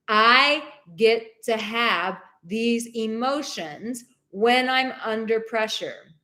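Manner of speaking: affirmation. Shown as a demonstration. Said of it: "I want you to say that with me".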